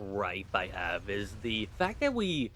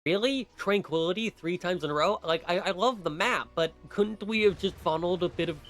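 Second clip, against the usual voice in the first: high, exasperated disbelief; incredulous, pitched-up complaining; 7 semitones higher than usual. Real, not acted. Incredulous complaint about repeated levels.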